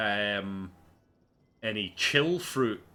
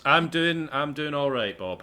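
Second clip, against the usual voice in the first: lightly voiced character; 5 semitones higher, 6 dB louder than usual. Character answers Bob.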